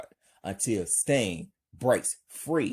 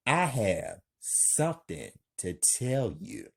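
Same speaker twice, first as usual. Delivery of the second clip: calm; 4 dB quieter than usual. Acted. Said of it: "Frank calmly".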